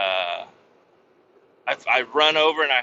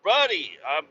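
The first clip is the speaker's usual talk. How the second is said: much higher, louder, slow whoa; alarmed shout; 7 semitones higher, 3 dB louder than usual. Retold or imitated. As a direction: stop them burning you, shouting. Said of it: "I'm like".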